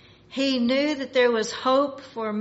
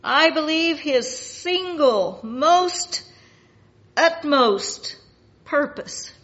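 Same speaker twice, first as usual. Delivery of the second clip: loud, higher pulpit emphasis; raised-voice, forceful preaching; emphatic preaching; 5 semitones higher, 8 dB louder, slower than usual. Real, not acted. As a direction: drive each word home loudly. Preacher stressing Satan's main purpose.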